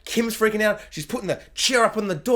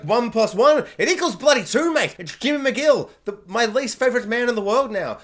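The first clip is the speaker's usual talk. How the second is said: smug Howard; 3 semitones higher than usual. Retold or imitated. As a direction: gloat like a pleased detective. Howard figuring out Jimmy.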